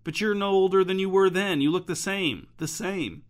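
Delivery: stunned disbelief, voice rising; shocked, can't believe it; astonished gasp. Acted. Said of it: "Sam gasped".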